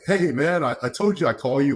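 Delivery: upbeat retold phone hello; happy caller. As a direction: lightly imitate a happy doctor on the phone. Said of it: "like, all happy".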